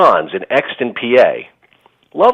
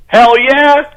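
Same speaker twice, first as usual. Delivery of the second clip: enthusiastic; 10 semitones higher, 4 dB louder than usual. Retold or imitated. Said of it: "I'm like".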